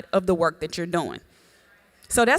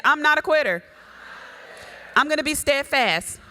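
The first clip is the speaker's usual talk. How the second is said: declaration; 3 semitones higher than usual. Shown as a demonstration. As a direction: proclaim it so they echo it. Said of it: "Say it".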